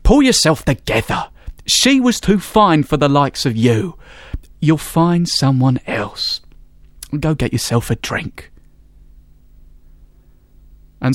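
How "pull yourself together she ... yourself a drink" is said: lightly voiced chum, brisk then gentle; a friend jollying him out of it; consoling friend.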